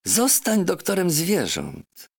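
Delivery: a parrot pressing the point home; insistent parrot. Acted. Parrot urging the doctor to become an animal doctor. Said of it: "papuga ... powiedziała".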